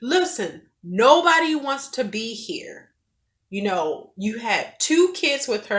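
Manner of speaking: retold angry scolding of an arguing father; angry telling off. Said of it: "I got angry".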